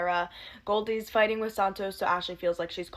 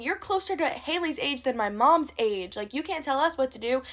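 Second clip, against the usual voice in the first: higher-pitched mock indignation; imitated telling-off; 4 semitones higher than usual. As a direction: act out daughters scolding, mildly heated. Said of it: "the daughters just, like, went off on him".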